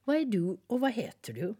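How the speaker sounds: friendly little bird asking; little nightingale. Acted. Nightingale speaks.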